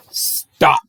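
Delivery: breathy whispered Stop. Acted. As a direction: hush it like a secret. Ram line whispered, then redone.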